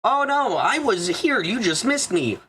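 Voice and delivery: high, whiny mock of a lying coworker. Mocking the coworker who denies the recording, high and whiny. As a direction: parrot her fake innocent excuse.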